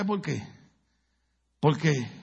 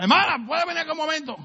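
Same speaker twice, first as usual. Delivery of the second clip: much higher, sweetly calling her over; calling a sister; 10 semitones higher than usual. Retold or imitated. Pastor mock-calling an older sister over, sweetly. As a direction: summon the sister, sugar-coated.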